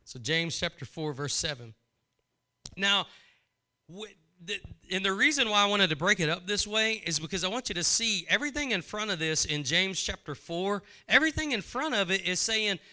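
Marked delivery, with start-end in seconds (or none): none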